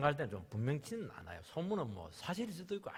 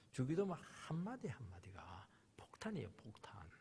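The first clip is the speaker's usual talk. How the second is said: hushed intensity; 3 semitones lower, 8 dB quieter than usual. Acted. Hushed emphasis in sermon.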